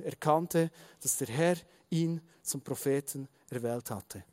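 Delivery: measured storytelling read-aloud; Bible story narration. A narrator's reading. Preacher reading the story of Samuel to the congregation, measured narration. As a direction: read the story out with deliberate phrasing.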